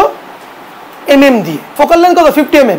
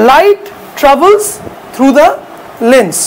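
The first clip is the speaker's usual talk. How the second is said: slow dictation; much slower than usual. Shown as a demonstration. Teacher dictates an English definition.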